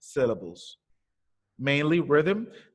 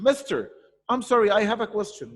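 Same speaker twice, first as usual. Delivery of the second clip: lightly voiced student, pitched higher; higher-pitched apologetic interruption; student interrupting; 5 semitones higher than usual. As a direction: pipe up politely like a pupil. Teacher voices a student asking.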